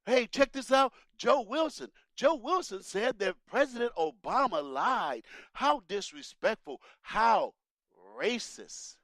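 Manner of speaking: mock outraged newscaster; mock media outrage. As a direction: parody breathless reporters. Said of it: "The media was like".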